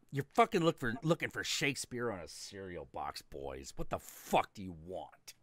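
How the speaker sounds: loud, rough snarl at the comic nerds; gruff hick voice. Retold or imitated. Hick sneering at boys chatting about Iron Man, loud gruff snarl. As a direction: bark it like an annoyed old hick. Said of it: "he just goes".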